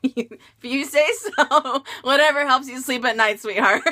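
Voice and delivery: a mild mock-sweet put-down; sassy brush-off. Brushing off the snooty coworker, with a light sarcastic laugh. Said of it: "is what I would say".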